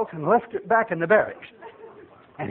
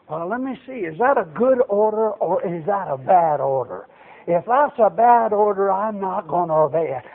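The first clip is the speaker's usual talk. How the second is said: doubting soldier; 2 semitones lower than usual. Retold or imitated. Mimics doubting modern soldiers.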